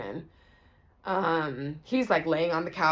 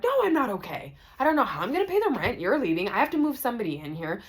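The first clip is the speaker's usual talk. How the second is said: higher voice, rushed panic; imitating frantic Nancy; 7 semitones higher, faster than usual. Roommate voiced panicking about the rent, high and rushed. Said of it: "And she was like".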